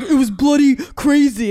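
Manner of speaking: lightly imitating partner's Irish accent; mock Irish accent. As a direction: tease him with a hammed Irish lilt. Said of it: "he'll be like".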